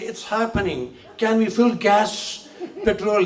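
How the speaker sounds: lightly put-on American accent with stretched words; mock American accent. Returned software worker showing off, in a mock American accent. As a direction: imitate an acquired American twang. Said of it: "they'll go for two weeks".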